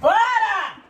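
loud high yell; shouting. Real, not acted. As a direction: yell stop. Fending off kiss.

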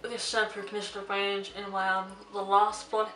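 holding back hiccups, smooth robotic voice; suppressing hiccups. Real, not acted. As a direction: talk while fighting off hiccups. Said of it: "I'm trying to suppress hiccups".

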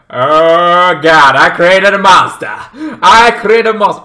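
mock horror over what she's created; horrified realization. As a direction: gasp it out as if you made a monster. She sees the killing.

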